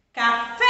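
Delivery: Café with FÉ long and loud; stress on tonic syllable. Shown as a demonstration. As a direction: punch and stretch the last syllable of Café. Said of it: "eu pronuncio ele com maior intensidade". (Café com a sílaba final forte e alongada)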